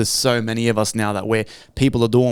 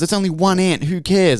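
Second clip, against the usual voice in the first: mocking grasshopper voice; 5 semitones higher than usual. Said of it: "the other grasshopper goes".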